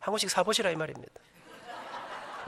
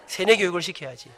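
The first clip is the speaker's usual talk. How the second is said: laughing inner thought; 4 semitones lower than usual. Retold or imitated. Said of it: "제가 속으로".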